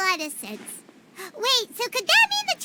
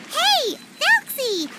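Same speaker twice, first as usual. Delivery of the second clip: slow, higher call across the camp; 5 semitones higher, much slower than usual. Acted. Paimon calling the robot penguin over, drawn-out call. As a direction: draw out the name to summon it.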